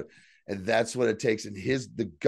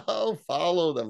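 higher-pitched mock laugh running into the order; villain's gleeful laugh; 6 semitones higher than usual. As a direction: imitate a villain laughing as she gives chase. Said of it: "She just laughs like".

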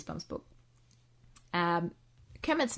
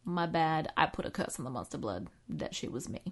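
witchy aunt voice. Retold or imitated. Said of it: "his aunt is like".

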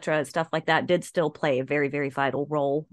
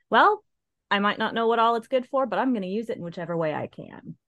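gnome voice; 4 semitones higher, faster than usual. Pretend. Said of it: "They're very resourceful little guys".

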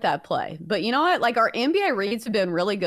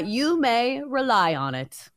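magic eight ball voice; 3 semitones higher, slower than usual. Pretend. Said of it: "Eight ball, what do we think?".

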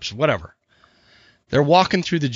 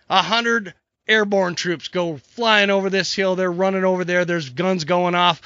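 higher-pitched, building battle tale; dramatic story narration; 5 semitones higher than usual. Acted. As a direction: tell it like an escalating war story. Tells battle joke.

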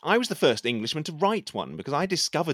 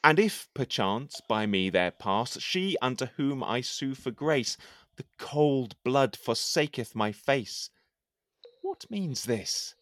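measured, declaiming poem reading; poem recitation; 2 semitones lower, slower than usual. Acted. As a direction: recite it like a courtly poet. Recites his poem aloud.

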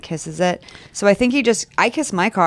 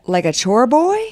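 debutante voice; 5 semitones higher, slower than usual. Acted. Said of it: "Why did you say that like a debutante".

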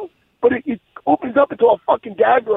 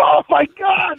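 shocked exclamation; 6 semitones higher, slower than usual. Retold or imitated. Retelling the security pat-down to the co-host, shocked outburst. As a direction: blurt it out in shock.

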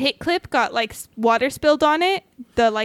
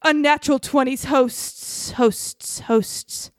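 booming call fading into echo; much slower than usual. Acted. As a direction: call out, then let it echo away. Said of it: "a voice calls out, echoing around us".

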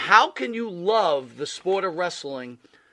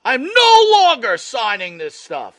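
loud, slow, final; louder, slow refusal; 6 semitones higher, 9 dB louder than usual. Retold or imitated. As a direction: plant your feet, slow and loud. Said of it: "the wrestler's saying".

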